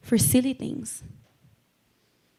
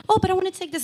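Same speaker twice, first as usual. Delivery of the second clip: higher-pitched mock protest; whining objector; 9 semitones higher, much faster than usual. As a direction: put on a reluctant little plea. Voices a reluctant believer's objection.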